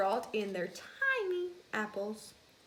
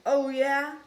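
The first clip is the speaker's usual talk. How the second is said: loud, higher mock challenge; challenging; 4 semitones higher, 10 dB louder than usual. Mouse challenging his friend, loud and higher. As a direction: call his bluff. Kids' quarrel.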